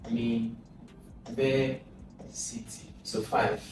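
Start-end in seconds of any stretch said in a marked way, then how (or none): 0.1-1.7 university slow, stress on ver; stress demo. Shown as a demonstration. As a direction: draw out university to show its stress. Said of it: "same stress pattern as university".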